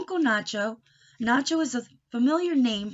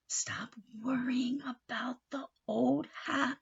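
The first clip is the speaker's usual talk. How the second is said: soft reassurance; 3 semitones higher, 4 dB quieter, slower than usual. Acted. Ambrosia comforts him.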